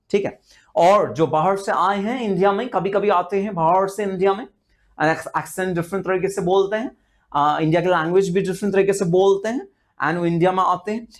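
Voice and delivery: mock British accent on Hindi. Teacher playfully mimics a foreigner in a British accent. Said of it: "Sir, your British accent is too good".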